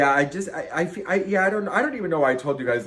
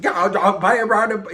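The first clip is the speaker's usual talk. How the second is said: high, loud imitation of forced partying; extreme, manic cheer; 7 semitones higher, 9 dB louder than usual. At the bar hiding a wreck, extreme mock cheer. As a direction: call it out with over-the-top bravado. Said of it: "If I don't do this extreme".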